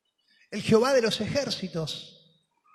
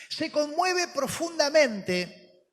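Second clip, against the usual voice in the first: "conmueve" stretched out slowly, pitched higher; slow, lifted emphasis on "conmueve"; 6 semitones higher, slower than usual. Acted. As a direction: lean hard and slow on "Se conmueve profundamente". Preacher dwells on the word.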